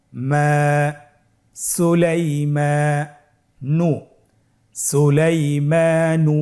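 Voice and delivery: broken into syllables, then joined slowly. Shown as a demonstration. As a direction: read it piece by piece for learners. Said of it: "ভেঙে ভেঙে পড়ব". (ভেঙে ভেঙে ধীরে উচ্চারণ)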